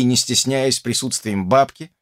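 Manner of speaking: normal talking voice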